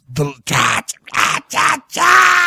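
mock yell. Imitating friend's emotional outburst.

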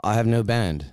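mock British accent. Playing a Brit asked about his band, British accent. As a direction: answer in put-on British. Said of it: "all you British dudes".

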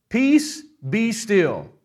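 Jesus rebuking the wind and waves, commanding; commanding rebuke. Acted. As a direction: order the storm to stop.

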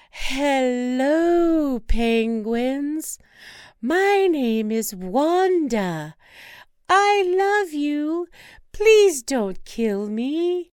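slow, high, careful; slow pleading Wanda. Acted. Wife to penguins, slowly pleading for her life. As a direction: coax them gently, then beg.

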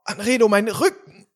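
put-on creaky, aching old man; old person voice. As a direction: groan it like an ancient man. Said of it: "du bist wirklich jetzt zwischen diesen beiden letzten Folgen unglaublich gealtert".

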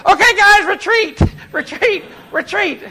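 high, loud shout fading with each retreat; mock retreat yell. Calling teammates to retreat, loud shout fading down. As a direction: yell the retreat order, then ease off.

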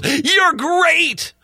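high, slow mock gushing praise; lightly voiced Twitter troll cheering her on. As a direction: play a fawning online fan.

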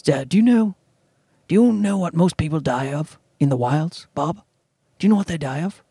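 lightly voiced Sir Anthony Hopkins, low and measured; a hint of Hopkins lecturing Bob; Anthony Hopkins impression. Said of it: "it's not a great Anthony Hopkins impression".

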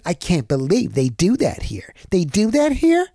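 starts in his own voice, then jumps high on the question; mock a resident's disbelief, peaking on "here"; imitating the neighbor again. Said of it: "That's how he said it".

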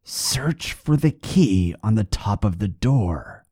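slow, eerie corpse voice; slow and uncanny, close by; slow unearthly whisper-like voice; ghostly voice in his ear. Acted. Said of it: "The voice said in his ear again".

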